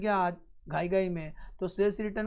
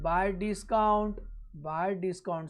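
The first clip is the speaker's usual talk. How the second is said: very slow, drawn-out words; slow dictation; much slower than usual. Real, not acted. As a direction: dictate it slowly for note-takers. Teacher dictates the entry while writing. (धीरे-धीरे लिखवाते हुए)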